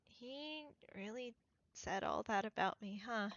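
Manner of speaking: softly spoken, mild hurt; a little saddened. Acted. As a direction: let a touch of sadness soften it. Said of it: "looks a little bit saddened at that".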